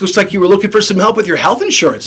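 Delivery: fast, breezy sales pitch; brisk and casual. Shown as a demonstration. Rep pitching a casual caller, quick and breezy. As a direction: rattle it off like a chummy rep. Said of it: "You have to adapt".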